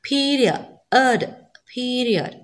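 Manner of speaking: പീരിയഡ് with a weak "ee" gliding into a fuller "uh"; prominent second vowel. Shown as a demonstration. Teacher showing which vowel gets prominence, careful demonstration. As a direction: isolate the ending ഏഡ്, then say പീരിയഡ് whole. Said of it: "ഏ സൗണ്ടാണ് നമ്മൾ prominence".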